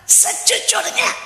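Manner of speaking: ordinary talk, nothing marked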